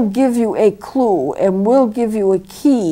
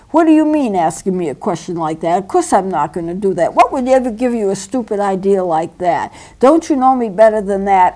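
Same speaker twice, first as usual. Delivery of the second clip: mild agitated. Shown as a demonstration. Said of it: "but they're agitated about it".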